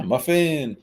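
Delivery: high-pitched demonstration of an exclamation; exclaimed. Retold or imitated. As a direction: show how an exclamation point sounds. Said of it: "That's what an exclamation point means".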